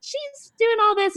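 high-pitched imitation of a tearful rant; mock breakdown. Imitating Tamara's crying breakdown about Kelly, high mock meltdown. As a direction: whine it as a hammed-up meltdown. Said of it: "she has this breakdown".

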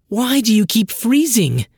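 high, loud urgent demand. Acted. Sister demands answers, high and loud. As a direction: insist on an answer.

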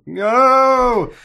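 long, high drawn-out wail; hammed-up villain's death cry; mock falling scream.

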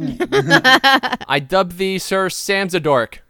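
slow, grand royal proclamation; solemn regal knighting. Pretend. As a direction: dub him knight with ceremony. Host knighting the guest.

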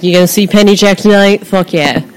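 hammed-up, badly faked British accent; horrible British accent. Excited British gig-goer talking up the band, in a horrible British accent. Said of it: "that was a horrible British accent".

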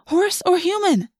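high, slow wail; panicked wail. A narrator's reading. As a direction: wail it out, stretched and high-pitched. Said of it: "Cassie wailed".

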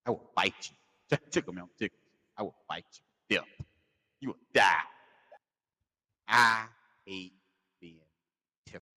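comic threat, hard-hit words; spaced-out, emphatic annoyance; getting mad. Real, not acted. Comedian fuming over being tickled, getting mad. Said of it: "I'm getting mad".

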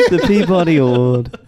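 put-on a light British accent on The Peabody Award; mock-posh British Peabody Award. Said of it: "saying it in a British accent".

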